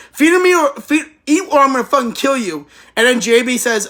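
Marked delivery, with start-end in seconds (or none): 0.1-2.7 raised, higher yell acted out as a furious threat; half-playful shouted threat, pitched up; mock scream. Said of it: "and he screams, she screams at him".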